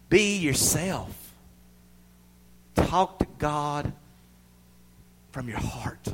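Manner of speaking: very slow, deliberate urging; slow emphatic. Real, not acted. Preacher urging listeners to pray honestly, very slow. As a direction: lay each word down slowly. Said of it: "slow emphatic advice".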